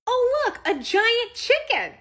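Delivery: put-on high, loud, slow kid exclamation; excited ten-year-old. Ten-year-old spots rooster statue, excited kid shout. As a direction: call out in wide-eyed delight. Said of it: "Our ten-year-old says".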